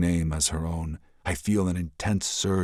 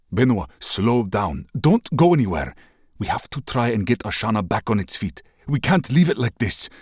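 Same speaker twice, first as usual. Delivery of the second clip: louder, urgent begging; pleading; 5 semitones higher, 5 dB louder than usual. Acted. Prince begs the princess to stay, urgent. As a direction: beg her not to go. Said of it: "I'm begging her to stay".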